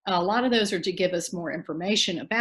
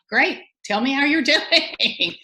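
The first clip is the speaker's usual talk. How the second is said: excited; 8 semitones higher, 7 dB louder than usual. Retold or imitated. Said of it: "And I said".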